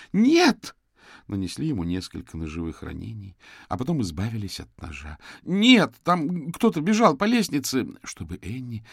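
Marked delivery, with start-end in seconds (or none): 0.1-0.8 very high, loud scream of denial; desperate shriek. Acted. Suspect screams his denial at the detectives. Accused of murder. 5.4-7.9 high, loud, panicked; frantic protest. Acted. Suspect frantically protests to the detectives.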